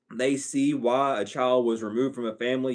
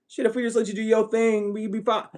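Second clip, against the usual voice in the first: mock family voice; 5 semitones higher than usual.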